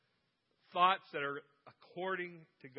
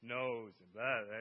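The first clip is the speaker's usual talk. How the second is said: whiny complainer; 7 semitones lower than usual. Retold or imitated. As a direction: moan through the list of ailments.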